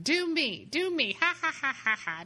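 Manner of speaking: imitating a gleeful mom, high-pitched and laughing; high, eager plea broken up with mock laughter; mom begging. Daughter quoting her mom begging for impressions, high and gleeful. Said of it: "my mom is always like".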